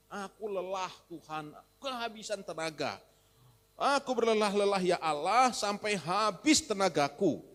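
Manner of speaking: rising to a loud weary cry; voicing Agur's lament. Preacher acting out Agur's tired complaint to God.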